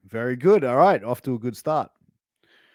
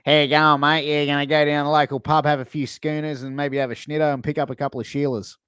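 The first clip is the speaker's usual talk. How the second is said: louder, quick-fire ocker bloke rattling off his plans; bogan impression; 3 dB louder than usual. Host mimics a bogan uncle for the wrestler, loud and chirpy. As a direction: play the pub-bound Aussie bogan, loud and chirpy. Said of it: "someone who's like".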